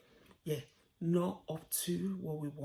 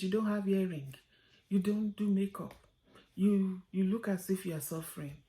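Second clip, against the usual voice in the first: retold stern telling-off, louder; mom's scolding; 3 semitones higher, 6 dB louder than usual. Mother rebuking the cheating cloth seller, loudly. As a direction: scold her to her face, loud and direct. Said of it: "The way she talked to her".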